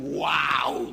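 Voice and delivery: drawn-out mock "wow" of awe; wowed, hammed-up reaction; imitated amazement. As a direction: gush like an easily impressed churchgoer. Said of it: "ya dicen".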